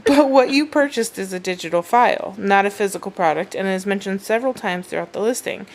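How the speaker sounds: customer service voice. Retold or imitated. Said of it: "there's my customer service voice".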